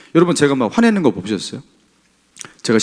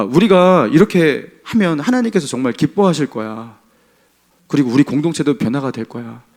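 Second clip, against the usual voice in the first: gentle encouragement. Acted. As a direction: model kind words to a struggling member. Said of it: "그 뉘앙스가 분명히 달랐을 거예요".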